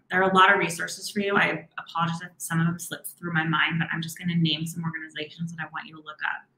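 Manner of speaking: quick, run-on delivery; hurried rush of words; speaking fast. Real, not acted. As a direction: rattle it off without pausing. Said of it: "I've noticed I'm speaking fast".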